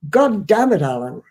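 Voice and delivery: lightly voiced exasperated mentor; mild mock exclamation, falling on the name; quoted mentor. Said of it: "it came out something like this".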